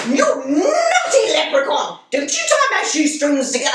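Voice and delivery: mock telling-off with a laugh in it; playful scolding. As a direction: scold a mischievous little pet, amused. Playfully scolds leprechaun at feet.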